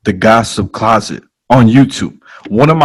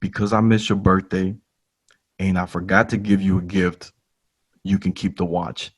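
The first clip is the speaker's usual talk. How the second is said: lower, softer boss voice with pauses; lightly voiced boss, measured and quiet; retold boss; 4 semitones lower, 8 dB quieter than usual. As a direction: make the offer low and soft, pausing between phrases. Boss's solemn offer, retold.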